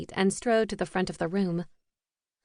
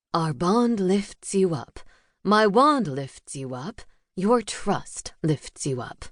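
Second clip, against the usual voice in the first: spell incantation; slower than usual. Acted. Professor casts a spell.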